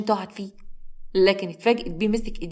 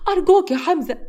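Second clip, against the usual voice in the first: higher, louder أرجوك, tearful; crying plea; 10 semitones higher, 5 dB louder than usual. A narrator's reading. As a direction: cry out أرجوك desperately. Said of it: "وهي بتبكي بخوف".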